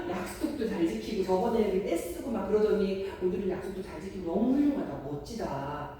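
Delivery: big admiring gasp, then gushing praise; lightly hammed-up proud parent; effusive praise. Parent praising child for keeping the promise, gushing. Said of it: "폭풍 칭찬을 해주셔야 돼요".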